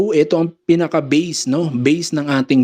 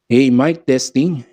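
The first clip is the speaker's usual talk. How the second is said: treble restored; 2 semitones lower, slower than usual. Shown as a demonstration. Sound tech showing treble turned up, clearer voice. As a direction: clear mic check with highs back. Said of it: "lagyan natin ng clarity".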